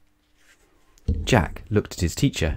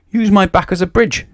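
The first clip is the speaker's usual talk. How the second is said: higher, oily crocodile voice; oily reptile offering help; oily wheeze; 10 semitones higher, 4 dB louder than usual. A narrator's reading. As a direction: sound slyly helpful, wheezing. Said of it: "suggested the crocodile".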